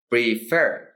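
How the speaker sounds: "prefer" said as pre-FER; stress on last syllable. Shown as a demonstration. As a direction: lean on the second syllable of "prefer". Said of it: "el acento recae en la última".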